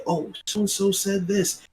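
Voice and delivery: high, slow mocking gossip voice; a lightly put-on voice, smug and drawn out. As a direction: sneer it out like a gossip spreading a rumour. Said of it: "they can go on there and say".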